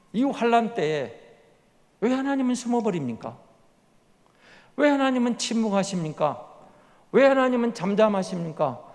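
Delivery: pleading complaint. Acted. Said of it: "이렇게 탄원하면서 불평하는 거예요".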